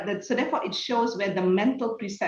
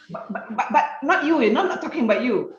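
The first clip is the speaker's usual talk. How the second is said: mock backpedalling colleague; 4 semitones higher, faster than usual. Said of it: "And then they say".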